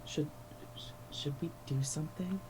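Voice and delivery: hushed, breathy in-character whisper. Acted. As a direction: whisper it so only Jasmine hears. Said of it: "I'm gonna whisper to Jasmine".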